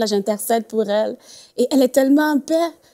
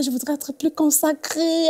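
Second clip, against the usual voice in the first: higher, drawn-out imitation of tearful pleading; retold tearful plea; 5 semitones higher than usual. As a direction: lightly act out someone close to tears. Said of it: "Elle se mettait à pleurer carrément".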